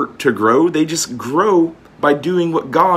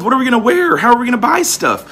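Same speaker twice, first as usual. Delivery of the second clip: mock worried voice; 7 semitones higher, faster than usual. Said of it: "Wherewithal shall we be clothed?".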